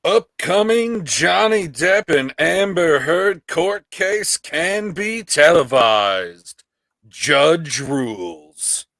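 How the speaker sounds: slow, deliberate headline read; radio voice. Acted. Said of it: "do his radio voice to read this article".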